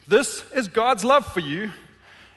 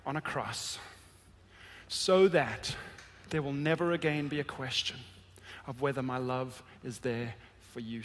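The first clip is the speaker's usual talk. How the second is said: much softer, lower, tender sermon voice; hushed intimate preaching; 6 semitones lower, 10 dB quieter than usual. Acted. Pastor telling the congregation about the cross, hushed and tender. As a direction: draw them in close, almost confiding.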